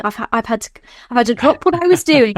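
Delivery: a touch of put-upon annoyance, the last words slowed; mildly fed-up devil summoned by clowns; irritated devil. Retold or imitated. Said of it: "a really irritating".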